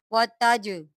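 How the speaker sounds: वतज with the jeem bounced, a small echoing release; qalqalah on jeem. Shown as a demonstration. Teacher shows students the bouncing jeem, qalqalah. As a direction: shake the final ज in वतज. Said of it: "कलकला के साथ पढ़ेंगे".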